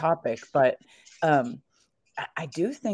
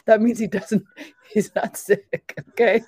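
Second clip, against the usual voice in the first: sarcastic mockery; 7 semitones higher, 5 dB louder than usual. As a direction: spell it out sarcastically. Mocking neighbor's logic.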